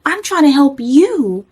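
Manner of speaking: high slow tearful plea; crying. Retold or imitated. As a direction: beg him through tears. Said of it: "I'm crying".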